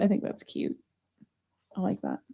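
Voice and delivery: soft whisper to herself; whispered aside. Real, not acted. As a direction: breathe it out, no voice. Quiet aside while sorting.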